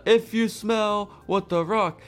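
high, slow hammed-up catchphrase; mock wrestler catchphrase; Rock catchphrase. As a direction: draw it out like a promo. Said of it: "when I was saying".

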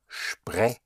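"sprechen" slowly split, sh sound on sp; broken into syllables. Shown as a demonstration. Teacher models sprechen for a learner, syllable by syllable. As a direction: say "sprechen" as shpre, pause, chen. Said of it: "break it up first into two, the two syllables".

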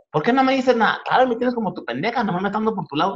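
guilt-trip the silent son; offended mom. Retold or imitated. Comedian imitating his mom upset at her son's silence. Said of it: "Y si no le contestas".

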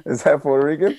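whispered mock-secret question; teasing whisper. Real, not acted. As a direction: lean in and whisper the tease. Teasing question about odd word.

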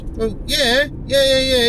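high, mocking yeah yeah yeah; mocking friend. Mocking the friend who says he knows it all, high. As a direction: mimic a know-it-all mate. Imitates friend's smug agreement.

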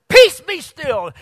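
loud, slow, booming rebuke; angry command. Acted. Jesus woken by the storm, rebuking it in a loud, slow booming shout. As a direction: rebuke the wind at full voice, slowly. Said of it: "in an angry mood and says".

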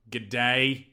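a quick, half-hearted Australian G'day; bad Australian accent. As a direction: toss off a clumsy Australian greeting. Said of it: "awful at the Australian accent".

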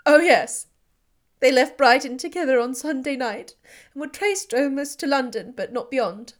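high, loud, anguished; despairing. Acted. Elizabeth answering Darcy, high and anguished despair. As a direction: pour out hopeless anguish. Heroine in despair over sister.

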